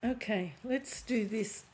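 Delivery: losing voice, hoarse and strained. Real, not acted. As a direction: voice going hoarse. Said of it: "I'm losing my voice".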